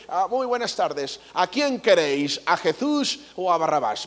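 a hint of a Castilian announcer; Spanish accent. Old-film Castilian official asking the crowd, Spanish accent. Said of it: "¿Por qué hablas como españolito?".

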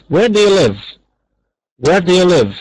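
quick linked model question. Shown as a demonstration. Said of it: "لما بننطقها بسرعه".

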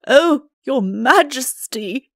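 high, slow lament; distressed, drawn-out address; dismayed. A narrator's reading. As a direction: moan it in helpless dismay. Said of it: "said the poor Chancellor".

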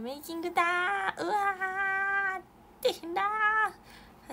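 high, loud, stretched-out wail of dismay; mock dismay. Announcing the making-of video to fans, hammed-up loud wail. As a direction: ham up the panic, dragging out each vowel.

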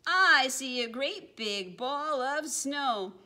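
high, loud mock cry of alarm; a playful startled yell. Penguin spotting the snowball, playful yell. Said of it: "One looked up and yelled".

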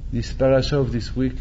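normal talking voice

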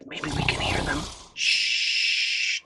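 soft unvoiced whisper. Reader hushing the children to hear the firemen sleep, whispering. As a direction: whisper so the sleepers stay asleep. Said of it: "Be very quiet".

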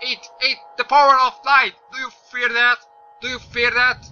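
loud, high, over-the-top hero taunt; hammy battle cry. Pretend. Gamer taunting the enemy with his torch, hammed-up hero shout. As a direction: play the mighty hero, hammed up.

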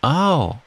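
high wailed ow; cried-out "ow". A narrator's reading. Piglet scrubbed in the bath by Kanga, high cry of ow. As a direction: yelp in protest. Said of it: "cried Piglet".

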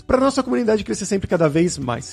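upbeat host sign-off, lifted above chat pitch; polished presenter read with punched key words; podcast outro ad read. Acted. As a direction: sell the sponsor to listeners, then sign off. Host reads outro and sponsor ad.

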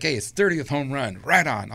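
mildly excited whoop over a caught ball; ecstatic. Retold or imitated. Fan celebrating the thirtieth home run ball, lightly excited. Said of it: "I'm ecstatic".

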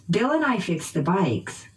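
"Bill and I" and "bikes" stressed by pitch; noun stress. Shown as a demonstration. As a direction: rise through "Bill and I", stress "bikes" and fall. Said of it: "using pitch change".

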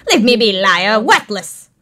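bitter, twisted bird voice; distorted bird. Acted. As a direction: spit insults as a warped bird. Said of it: "The bird's voice distorts even more".

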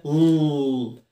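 ل held as a heavy "ull"; ل with the tongue back, drawn out; dark L. Shown as a demonstration. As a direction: hum a long, thick ل. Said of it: "ال ال تقيله كده؟".

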